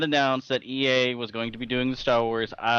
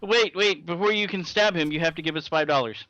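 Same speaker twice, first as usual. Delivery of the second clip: higher, pushy company voice; greedy publisher voice; 4 semitones higher than usual. Retold or imitated. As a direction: demand the fee like a salesman.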